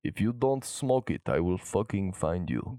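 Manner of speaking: put-on playful threat in a Russian accent; put-on Russian heavy, measured delivery; mock Russian accent. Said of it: "Mister Russia Man".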